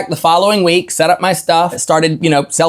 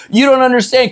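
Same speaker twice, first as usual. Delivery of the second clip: put-on earnest little girl; 7 semitones higher than usual. Girl insists to other customers.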